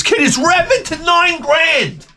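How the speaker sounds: high, laughing through the words. Real, not acted. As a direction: crack up as you say it. Laughing at son's endless questions.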